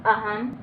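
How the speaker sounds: अहम ending on a clear "m"; final m sound. Shown as a demonstration. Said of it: "इसका उच्चारण माँ की तरह".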